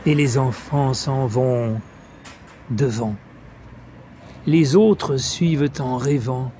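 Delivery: measured verse reading, pauses after each image; declaimed French poem in unhurried phrases; poetry recitation. Acted. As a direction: lift the line openings, then let them settle. Recites Apollinaire's Saltimbanque.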